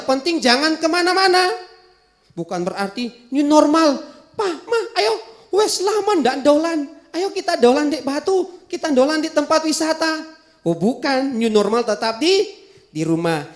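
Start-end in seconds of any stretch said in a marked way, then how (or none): 4.3-10.3 put-on child voice. Child begging parents for outing.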